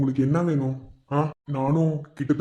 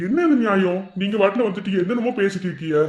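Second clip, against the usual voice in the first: exasperated, raised-voice objection; indignant protest. Acted. Objecting to a stranger's demands, indignant. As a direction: protest as if unfairly put upon.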